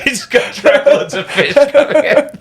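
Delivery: slow, high, laughing walrus; lightly voiced walrus bragging. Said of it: "I'm Milan Tusk, the walrus".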